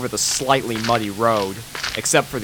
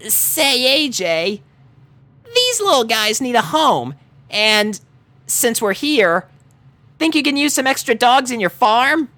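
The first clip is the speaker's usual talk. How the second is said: high, loud, hopeful; raised eager character voice; Rainbow Dash voice; 13 semitones higher, 4 dB louder than usual. Acted. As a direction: pitch a big favour to a friend. Rainbow asking.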